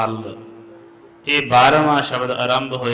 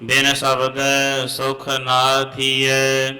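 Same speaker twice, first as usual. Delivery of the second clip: measured chant of Gurbani; santhya recitation; 2 semitones higher, slower than usual. Real, not acted. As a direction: recite slowly, line by line. (Gurbani ਦਾ ਸੰਥਿਆ ਪਾਠ)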